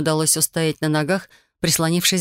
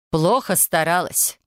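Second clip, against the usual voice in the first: curt cut-off; slower than usual. Acted. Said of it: "отрезала фея".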